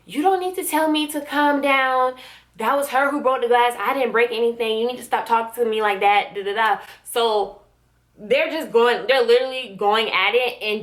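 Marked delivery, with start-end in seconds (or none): 0.1-6.8 in-her-face retort. Retold or imitated. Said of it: "Charity gets in her face".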